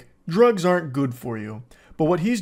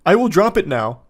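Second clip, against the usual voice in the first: laughing mock cheer; 5 semitones higher, 5 dB louder than usual. Mocking sudden friendliness.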